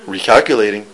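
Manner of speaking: low, measured navigation prompt; GPS machine. Acted. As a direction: lightly imitate a machine announcement. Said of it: "there was a machine".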